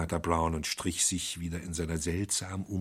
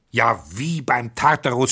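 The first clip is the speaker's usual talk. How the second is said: a louder, higher exclamation; shouting; 5 semitones higher, 8 dB louder than usual. Acted. Flambeau shouts at the priest in disbelief, loud exclamation. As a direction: cry out in disbelief. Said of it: "schrie Flambeau".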